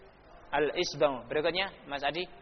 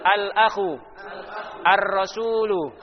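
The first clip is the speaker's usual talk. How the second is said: loud, higher choral reading; reading together; 4 semitones higher, 5 dB louder, slower than usual. Shown as a demonstration. Teacher leads class reading together, loud and higher. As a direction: call out each word with the class. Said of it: "kita baca bersama-sama".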